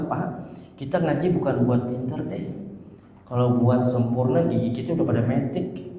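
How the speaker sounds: put-on soft, reassuring words to elderly students; gentle encouragement. Preacher softly encourages elderly students to keep reciting, reassuring. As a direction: coax old students kindly. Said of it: "motivasi mereka".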